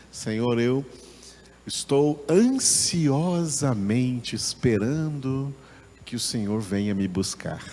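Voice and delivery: yearn earnestly, stretching the key word; eager longing. Shown as a demonstration. Teacher voices the Hebrew sense to the Lord, longingly. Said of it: "o sentido no hebraico é assim".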